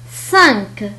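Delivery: "سانك" ending on a released k; French nasal vowel, then k, in "سانك". Shown as a demonstration. Teacher modelling French Q for learners, final k in "سانك". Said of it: "وهو ينطق مثل الكاف".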